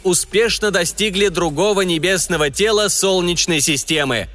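booming solemn state announcer. Acted. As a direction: proclaim it like Soviet state radio. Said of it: "Говорит и показывает Москва".

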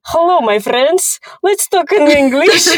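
hammed-up Russian accent, high and slow; comic Russian accent greeting, high and slow; heavy Russian accent. Shown as a demonstration. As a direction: play up a thick Russian accent for fun. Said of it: "when I do speak with accent".

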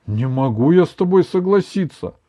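firm. A narrator's reading. Grandson refusing to agree with grandmother, firm. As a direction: stand your ground. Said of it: "твёрдо сказал Иван".

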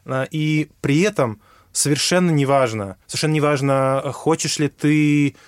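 ordinary delivery

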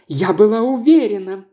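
jealous wife bursting in, crying out; shouting. Acted. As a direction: shout it out on catching them. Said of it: "закричала она".

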